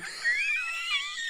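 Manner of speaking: high, laughing shriek; high yell. Real, not acted. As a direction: let a high shriek burst out. Yells again after testing the microphone.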